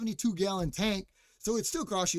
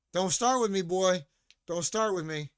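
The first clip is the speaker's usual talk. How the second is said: warning; 4 dB louder than usual. Real, not acted. Answering a viewer's comment.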